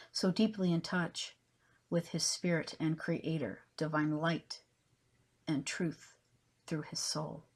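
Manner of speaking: measured recital, each phrase launched strongly and tapering off; poetry reading. Acted. Poet reads her spiritual poem to viewers, measured declaiming. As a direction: declaim the poem in separated phrases with emphatic openings.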